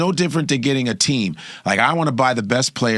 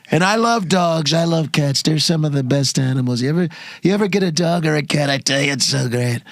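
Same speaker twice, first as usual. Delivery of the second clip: Trump impression.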